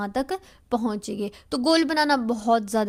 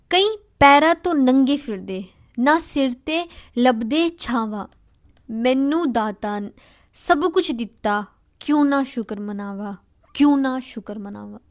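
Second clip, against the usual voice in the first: verse recitation; 4 dB louder than usual. Acted.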